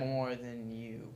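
soft whispered jab; whispering. Real, not acted. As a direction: whisper the comeback.

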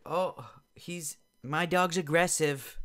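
high, loud, slow whiny warning; mocking the woman. Mocking the dog owner's warning, whiny and high. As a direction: mimic her panicky warning. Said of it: "she's like".

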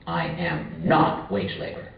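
quiet, slow, "not" lifted in "I am not wage labor"; stress on not. Shown as a demonstration. Lecturer repeating the slogan, weight on "not". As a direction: press on "not", slow and soft. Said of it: "Here the emphasis is on the not".

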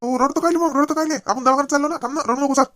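panicked husband hushing his crying wife; anxious urging. Acted. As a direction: push her to get up and go.

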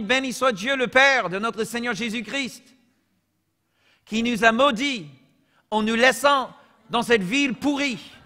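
playful parody of the verse; mock misreading. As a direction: read a made-up cursed version with a straight face. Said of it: "là je lis de, de vrai, ok?".

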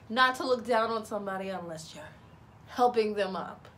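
lightly put-on announcer voice. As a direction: sign off like a radio announcer. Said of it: "why I'm speaking like an announcer now".

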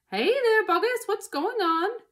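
high, loud onlooker's shout; calling out. A narrator's reading. Villagers calling down to Boggis, high loud shout. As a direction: holler down into a huge pit.

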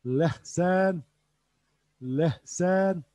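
Lehsen with a breathy h in the middle; Urdu pronunciation. Shown as a demonstration. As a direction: model Lehsen, h breathed out, not from the throat. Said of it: "Sarımsak da lehsen". (Lehsen kelimesini hafif nefesli h ile söyle)

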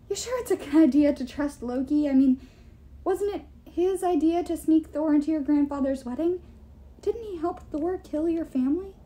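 high cartoon-mouse questioning; Mickey Mouse. A narrator's reading. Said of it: "unfortunate resemblance to Mickey Mouse's".

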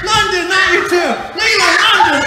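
loud, comic dismay; exasperated calling. Acted. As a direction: yell after the runaways. Dad calls after fleeing children.

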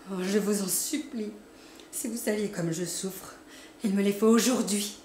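pleading, rising to a loud final cry; tearful begging. A narrator's reading. Hypnotized cousin pleads for the money, tearful and rising. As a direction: beg as if near tears. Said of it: "elle pleurait et bégayait".

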